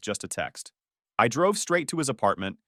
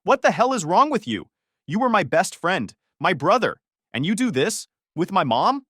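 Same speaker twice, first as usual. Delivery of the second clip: higher, louder raging yell; furious shout; 7 semitones higher, 5 dB louder than usual. Retold or imitated. Son yelling at the friend who slept with his mom. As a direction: scream the betrayal at him.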